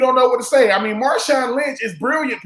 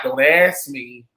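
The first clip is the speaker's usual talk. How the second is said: curt low brush-off; 9 semitones lower, much slower than usual. Retold or imitated. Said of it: "looking at the reporter like".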